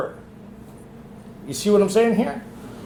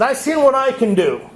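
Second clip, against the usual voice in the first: a higher, louder booming God; God's voice; 7 semitones higher, 4 dB louder than usual. Retold or imitated. Man voices God answering his prayer, higher and louder. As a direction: speak as God, confident and raised. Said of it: "God talk like that".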